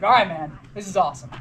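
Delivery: reluctant, retold compliance; half-hearted. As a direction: say it without meaning it. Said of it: "say it like you mean it".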